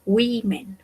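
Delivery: "women" said WEE-men; "women" with a Spanish I in the first syllable; I sound in women. Shown as a demonstration. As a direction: stretch the O of "women" into ee. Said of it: "se va a pronunciar como una I".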